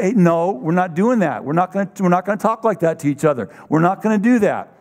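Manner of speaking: calm but firm, no yelling; voice of authority. Shown as a demonstration. Parent stopping the kids' bad talk, firm and unyelled. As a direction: set the rule steadily, like a parent would. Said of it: "you don't need to yell at them, but you need to use a voice of authority".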